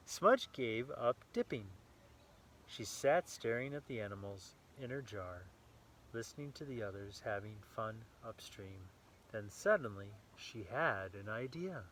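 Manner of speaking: lively read-aloud storytelling voice; story narration. A narrator's reading. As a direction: read it brightly to a small child. Reading picture book to child.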